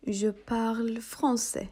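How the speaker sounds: slow, clear French phrase; slow model phrase. Shown as a demonstration. Teacher to students, slow model phrase. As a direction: say it slowly for learners to copy. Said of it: "yeni diller ekliyoruz".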